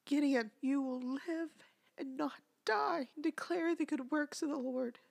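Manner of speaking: firm, spaced-out proclamation, not a full yell; retold declaring shout. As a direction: imitate a husband's bold declaration over his baby. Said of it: "he shouted".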